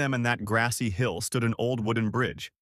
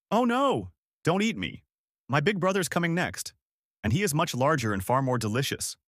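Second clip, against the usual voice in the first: higher, frightened little goat begging; frightened pleading; 4 semitones higher than usual. Acted. Middle goat begs the troll to spare him, frightened and higher. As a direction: plead for your life in a higher voice.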